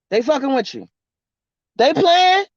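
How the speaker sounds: usual speaking voice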